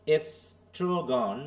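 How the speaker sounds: slow এস্ট্রোগন, split es-tro-gon; drawn-out ESTROGON. Shown as a demonstration. Teacher demonstrating to the class, slow syllable-by-syllable এস্ট্রোগন. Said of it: "এটা অনেকটা ই উচ্চারণ এ".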